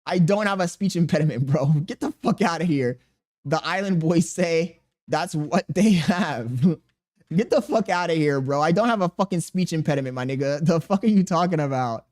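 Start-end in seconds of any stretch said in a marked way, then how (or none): 1.7-3.0 laughing. Real, not acted. Laughing at chat comment. 7.0-8.6 laughing. Real, not acted. Laughing at chat comment.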